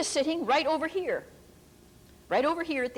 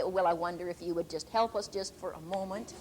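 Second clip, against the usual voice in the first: very relaxed; 6 semitones lower, 4 dB quieter than usual. Retold or imitated. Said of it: "you just sort of very relaxed say".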